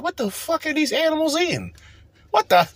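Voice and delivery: high, shocked mock white voice; a lightly hammed-up appalled white guest; mock white diner. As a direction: recoil at the food in hammed-up horror. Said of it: "They're like".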